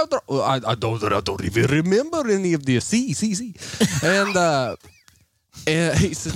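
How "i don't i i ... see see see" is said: put-on Indian accent drifting into Hispanic. Playing dumb to the phone scammer, mixed Indian-Hispanic accent. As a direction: play confused in a wandering Indian-Hispanic accent. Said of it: "floats into Hispanic accent".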